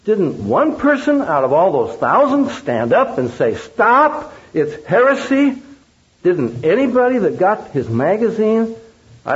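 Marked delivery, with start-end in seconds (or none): 3.6-5.6 imagined outcry. Acted. Imagined objector standing up in crowd.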